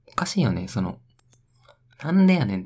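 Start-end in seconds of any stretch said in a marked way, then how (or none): 2.0-2.6 なんでやねん shouted high and loud; punchy nande yanen. Shown as a demonstration. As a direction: belt out なんでやねん like a comic retort. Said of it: "って最高じゃん". (高く大きくツッコむ「なんでやねん」)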